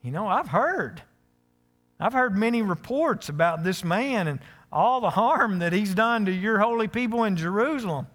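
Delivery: high, loud, alarmed pleading to God; panicked protest. Retold or imitated. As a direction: protest as if God can't be serious. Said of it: "can you hear him saying this?".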